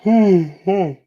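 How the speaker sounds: loud open-mouthed yawn; real yawn on air. Real, not acted. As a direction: let a big yawn escape. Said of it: "me yawning".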